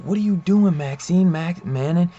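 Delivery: shocked protest at the killing; alarmed outburst. Retold or imitated.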